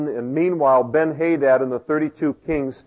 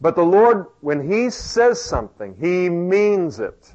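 emphatic; 5 semitones higher, 3 dB louder than usual. Real, not acted. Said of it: "preacher emphasis".

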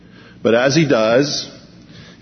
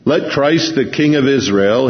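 mocking; 4 semitones higher than usual. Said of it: "mocking again".

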